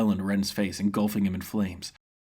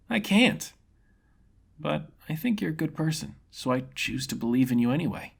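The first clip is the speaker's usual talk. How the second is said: a carefree fighter enjoying the duel; grinning swordsman impressed by his foe; cheerful young fighter; 6 semitones higher than usual. Acted. Ren sincere.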